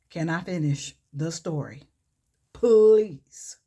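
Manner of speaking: plain ask, then a loud exasperated please. Retold or imitated. Kendrick begging the laughing room to let him finish, exasperated. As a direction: lose patience on the last word. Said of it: "He's just like".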